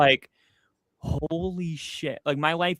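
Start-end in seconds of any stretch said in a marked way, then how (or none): 1.0-2.2 slow and much softer, stunned; hushed retold awe. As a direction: breathe it out slowly in disbelief. Stunned after cop drives off.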